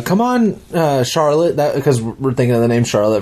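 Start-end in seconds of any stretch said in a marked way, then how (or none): 0.0-1.6 much higher, sing-song calling voice; wife calling child. Retold or imitated. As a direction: call the little girl in to bed.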